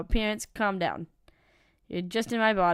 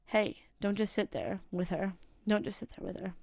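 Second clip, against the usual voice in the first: faint distant voice; 5 dB quieter than usual. Acted. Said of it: "you hear a faint, familiar voice".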